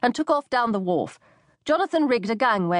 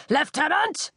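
bellowed; 7 semitones higher, slower than usual. A narrator's reading. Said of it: "he bellowed".

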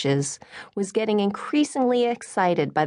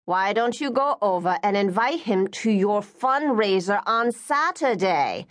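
pushy mother keeps on; 4 semitones higher than usual. Acted. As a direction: keep nagging your daughter to invite him. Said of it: "their mother kept on".

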